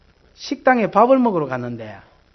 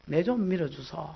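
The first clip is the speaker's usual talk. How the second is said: desperate prayer; 3 dB quieter than usual. Retold or imitated. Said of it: "완전히 전쟁하듯이 기도를".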